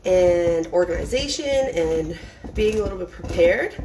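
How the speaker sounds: breathless from running the stairs; out of breath. Real, not acted. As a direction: talk while still catching breath. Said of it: "Of course, I'm out of breath now".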